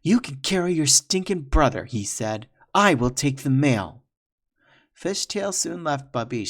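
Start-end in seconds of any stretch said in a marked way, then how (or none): 0.0-4.0 furious disgust. Acted. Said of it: "spoke with furious disgust".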